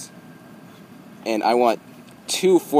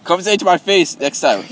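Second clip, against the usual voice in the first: higher-pitched taunting dare; heated tough-talk; confrontational challenge; 5 semitones higher than usual. Real, not acted. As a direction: dare them to meet you. Challenges worker to fight in person.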